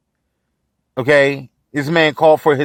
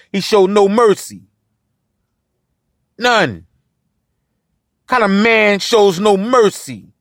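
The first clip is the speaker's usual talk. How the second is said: heated, higher and building in anger; rising outrage; 4 semitones higher than usual. Real, not acted. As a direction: let the outrage climb as you go on. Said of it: "I'm outraged".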